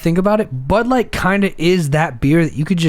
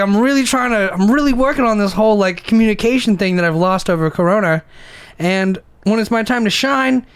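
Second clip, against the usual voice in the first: high pep-talk voice; 6 semitones higher than usual. Retold or imitated. Inner monologue, high voice.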